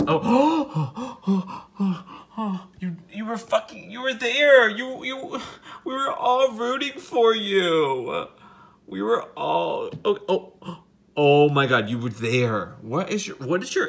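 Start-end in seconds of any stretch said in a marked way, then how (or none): 0.1-11.7 high, loud, excited outburst. Real, not acted. Cheering the wasp as it nearly escapes. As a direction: cheer it on, thrilled.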